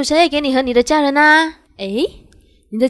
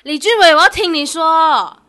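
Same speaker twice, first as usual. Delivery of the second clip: loud, slow demand; confronting; 2 semitones higher, 4 dB louder, slower than usual. Acted. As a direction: call him by full name, loudly and slowly. Confronting cheating boyfriend.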